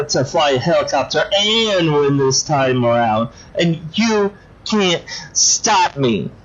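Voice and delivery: lightly voiced petulant little-girl villain; childish doll villain. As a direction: pout and whine like a spoiled doll. Dollface sulks, then defiant.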